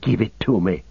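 mildly peremptory demand; understated possessive order; changed, demanding tone. Acted. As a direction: turn suddenly demanding, without raising the volume. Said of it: "strangely his tone changed".

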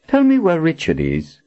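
cold demand. Acted. Villain demanding answer.

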